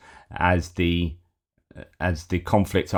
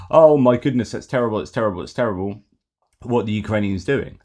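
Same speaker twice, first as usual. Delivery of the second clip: hammed-up alarm, higher and louder at the start, then fading; mock outrage; 3 semitones higher, 4 dB louder, faster than usual. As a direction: parody a panicking news reader, peaking on the first words. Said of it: "rather than".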